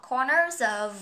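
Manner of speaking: "corners of" run together as corner-zof; linked words. Shown as a demonstration. Teacher showing learners where to link, "corners of" joined up. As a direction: carry the z of "corners" into "of". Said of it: "chỗ này mình nối sang".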